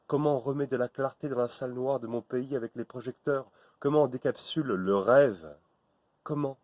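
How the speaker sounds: high, loud, desperate questioning shouts; rising outcry. Acted. Speaker raging at family violence, shouting high and loud. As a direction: build to a cry of despair. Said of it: "Je me calme".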